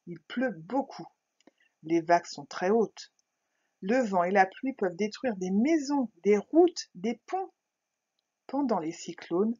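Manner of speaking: a clear reading of a short text; reading aloud. A narrator's reading. Teacher to pupils, calm reading aloud. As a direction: read the text calmly for young pupils.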